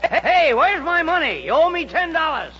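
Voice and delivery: high-pitched, indignant calling out; indignant demand. Acted. Higgins demands his ten dollars from Hooper, indignant and high. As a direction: call after him for what you're owed. Demands money owed by rival.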